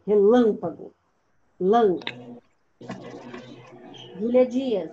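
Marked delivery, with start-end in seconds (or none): 0.1-0.9 Relâmpago with the weight on LÂM; stressed syllable demo. Shown as a demonstration. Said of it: "Lã, muito bem".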